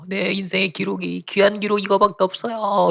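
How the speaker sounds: drawn-out, imitated wailing lament; tearful pleading. Preacher seeing his life's record end, retold tearful lament. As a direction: plead slowly, rising high as if weeping. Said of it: "너무 슬퍼하면서 우는 거예요".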